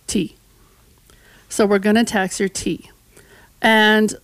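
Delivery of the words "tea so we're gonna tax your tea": sly whispered reveal. Retold or imitated. Historian voicing the British plotting a tea tax, hushed. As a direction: whisper the word Tea, then lay out the plan. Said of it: "the British turned right around and was like".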